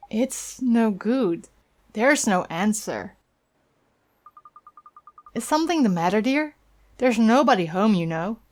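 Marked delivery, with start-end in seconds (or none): 5.3-8.4 lightly voiced old woman, chatty and concerned; a hint of a kindly busybody leaning in; gossipy old neighbour. Neighbour gossiping to the boy, a lightly voiced old woman.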